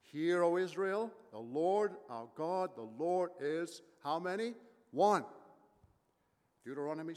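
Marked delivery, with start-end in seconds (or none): 0.0-3.8 slow, weighty recitation, leaving it open; recited battle cry. Acted. Pastor recites Israel's battle cry to the congregation, slow and solemn. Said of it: "the great battle cry of the Jew". 4.9-5.2 a loud, ringing one-word answer; loud call. Real, not acted. Pastor calls out the answer to how many, loud and ringing.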